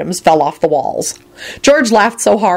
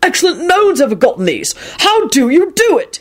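high, impressed exclamation; admiring; 11 semitones higher than usual. A narrator's reading. Arthur praising Lupin's find, admiring. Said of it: "he said admiringly to Lupin".

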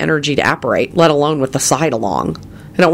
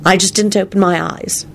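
mortified; 5 semitones higher than usual. A narrator's reading. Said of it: "she replied in a mortified tone".

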